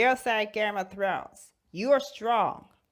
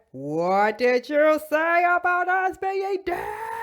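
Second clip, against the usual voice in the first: high, slow challenging shout; indignant shout; 9 semitones higher, slower than usual. Acted. Gamora and Loki confronting Star-Lord, high and indignant. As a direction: demand it, outraged. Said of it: "And then they said".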